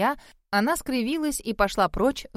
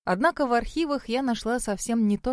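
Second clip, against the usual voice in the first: plain reading voice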